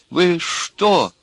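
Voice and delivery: high, stricken question; tragic. A narrator's reading. Accused man addresses his accusers, tragic. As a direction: tragic disbelief without shouting. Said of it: "сказал он трагическим голосом, тихо".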